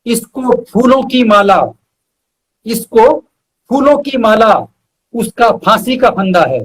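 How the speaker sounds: measured shayari recital with weighty pauses; poetic recitation. Acted. Reciting his couplet to the host, measured and poetic. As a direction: lean into each line like a mushaira couplet.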